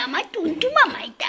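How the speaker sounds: high doting whisper. Real, not acted. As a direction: whisper it close to the pet. Whispering to pet.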